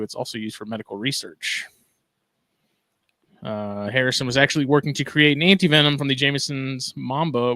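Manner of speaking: steady, formal news read; news anchor voice. Acted. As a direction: report it like a local news anchor. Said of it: "put on my best, uh, news anchor voice".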